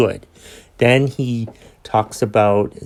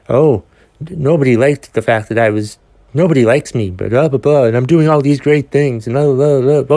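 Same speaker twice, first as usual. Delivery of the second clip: mock bragging; 3 semitones higher, 4 dB louder than usual. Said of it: "and he brags about".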